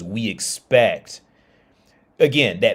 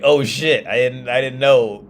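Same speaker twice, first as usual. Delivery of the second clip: mock panicked, higher and louder; caught out; 4 semitones higher, 6 dB louder, slower than usual. Himself asked which African country, mock panic. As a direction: act your younger self caught off guard. Retelling his own panic.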